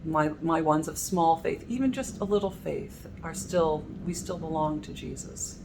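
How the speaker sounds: soft, gentle reassurance; loving voice. Retold or imitated. Preacher imagining Jesus comforting his fearful followers, soft loving voice. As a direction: speak like a tender shepherd. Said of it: "the loving voice of Jesus".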